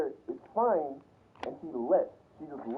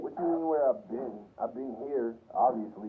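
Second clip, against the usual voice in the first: sister's attitude; 5 semitones lower than usual. Retold or imitated. Imitating his sister's dismissive attitude toward him. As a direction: brush him off like he's being ridiculous. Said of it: "You hear, you hear that attitude?".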